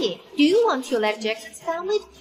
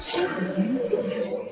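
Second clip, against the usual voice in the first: whisper; 6 dB quieter than usual. Acted. Aside about the strange man.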